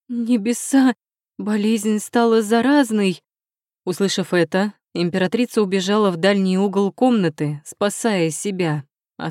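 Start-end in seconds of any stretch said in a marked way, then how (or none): 0.1-3.2 startled high cry, slowed on the warning; mock fright. A narrator's reading. Doctor feigning alarm at the patient's bed, startled cry. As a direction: gasp it out as if suddenly afraid. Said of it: "будто испугавшись".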